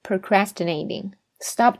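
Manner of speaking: "stop" said slowly and clearly; deliberate teaching pace; slow model. Shown as a demonstration. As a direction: spell it out slowly for learners. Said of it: "而是用stop".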